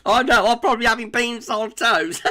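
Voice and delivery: giggling at his own beans on toast; laughing. Real, not acted. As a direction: joke said through real laughter. Jokes about his own plain dinner.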